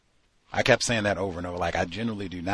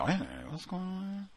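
surprised double take; 11 semitones higher, 6 dB quieter than usual. Retold or imitated. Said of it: "made me step back like".

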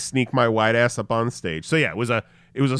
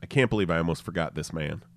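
ordinary delivery

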